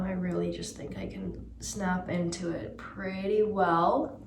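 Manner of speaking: relaxed LA American accent. Shown as a demonstration. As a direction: snap into an LA accent. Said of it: "I have a really good accent for".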